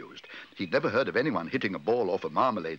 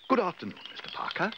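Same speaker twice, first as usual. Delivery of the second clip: higher-pitched friendly call; calling out a greeting; 9 semitones higher than usual. A narrator's reading. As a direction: hail someone from a little way off. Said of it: "he called".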